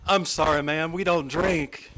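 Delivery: proud, deliberate refusal; father's loud announcement. Retold or imitated. Retelling father at the cocktail party, mildly loud. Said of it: "loudly announced to the international community".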